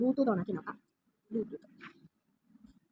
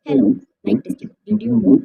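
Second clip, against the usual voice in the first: louder robotic voice through the speaker's changer; 12 dB louder than usual. Shown as a demonstration. Testing the speaker's robot mode, voice changer robot voice. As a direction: say it like a machine voice filter. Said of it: "ഇതൊരു റോബോട്ടിൻ്റെ ശബ്ദമാണ്".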